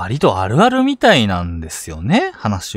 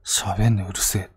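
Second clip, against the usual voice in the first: mumbled; 3 semitones lower, 5 dB quieter than usual. Retold or imitated. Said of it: "ボソッと言って".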